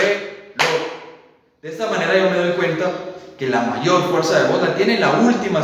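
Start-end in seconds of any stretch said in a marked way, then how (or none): 0.0-0.8 "Reloj" with the last syllable loj punched; stress on loj. Shown as a demonstration. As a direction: clap out "Reloj", hit loj. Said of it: "con aplausos para poder escuchar". ("Reloj" con fuerza en la sílaba loj)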